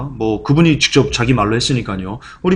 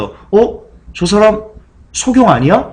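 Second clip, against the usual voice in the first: higher, puzzled questioning; surprised bystanders; 7 semitones higher, slower than usual. Retold or imitated. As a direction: act out a gasping onlooker. Crowd wondering about healed blind man.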